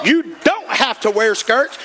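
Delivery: slow, deliberate preacher's emphasis; building sermon cadence; preaching. Acted. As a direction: lay down the point to the congregation.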